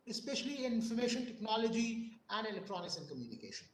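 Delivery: faint, soft lecturing voice; trailing off too softly to hear; barely audible. Real, not acted. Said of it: "your voice is very low. It's actually not clearly audible".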